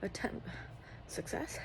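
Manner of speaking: winded after a shower; short breathless phrases; out of breath. Real, not acted. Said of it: "I'm out of breath".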